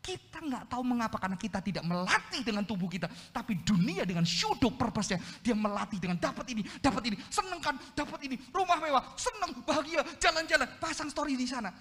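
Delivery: high, loud, building to a rapid-fire list; impassioned preaching. Real, not acted. Preacher warning how the world trains us to receive, impassioned.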